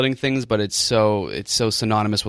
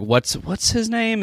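high, slow teasing dad; 12 semitones higher, slower than usual. Retold or imitated. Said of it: "they'll be like".

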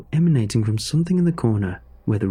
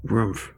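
dog's muffled woof; 3 dB quieter than usual. Acted. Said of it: "It came out sounding like".

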